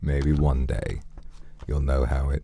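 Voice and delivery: put-on deep voice. Streamer musing on being alone, in a put-on deep voice. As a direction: draw it out like a showy deep-voiced villain. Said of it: "do you guys like my deep voice".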